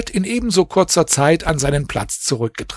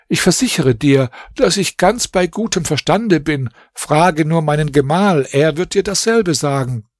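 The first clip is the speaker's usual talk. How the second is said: lightly voiced princess; 3 semitones higher than usual.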